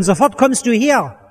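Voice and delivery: a slow, firm order from Jesus; commanding tone. Retold or imitated. Jesus orders the tax collector down from the tree, in a commanding tone. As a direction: call him down with clear authority. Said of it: "er redet ihn im Befehlston an".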